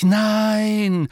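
loud cry of alarm; shout. A narrator's reading. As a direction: yell no in shock. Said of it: "schrien gleichzeitig".

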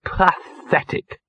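drawn-out, high disgusted misery; miserable. A narrator's reading. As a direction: drag the word out miserably. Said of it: "said Gaspode miserably".

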